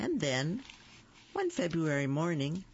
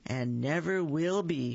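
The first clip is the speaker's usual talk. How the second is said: taunting; 3 dB louder than usual. Acted. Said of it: "Phil Junior taunted".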